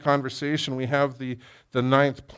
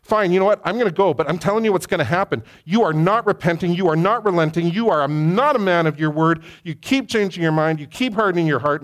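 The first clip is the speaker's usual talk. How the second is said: heated Moses rebuke; 3 semitones higher than usual. Retold or imitated. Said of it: "Moses essentially says".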